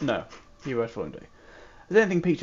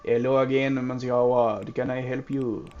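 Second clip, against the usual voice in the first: imitating a French accent; 4 semitones lower than usual. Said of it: "Is that even close?".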